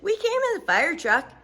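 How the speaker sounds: put-on high chatty girl, slowing at end; Sheila's voice. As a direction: innocent little girl explaining. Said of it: "Sheila said".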